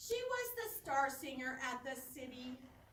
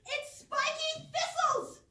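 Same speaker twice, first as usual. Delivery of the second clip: put-on whiny kid; 12 semitones higher, 9 dB louder, slower than usual. Kid complaining about kale at dinner.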